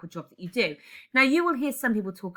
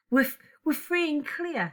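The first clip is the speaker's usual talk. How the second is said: higher, breaking into a mock sob; sob rising; 7 semitones higher than usual. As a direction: let the sob rise in her throat. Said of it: "A sob rises in her throat".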